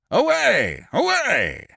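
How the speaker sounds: high, loud shouted command; shouting. A narrator's reading. Major General rousing the police, loud shout.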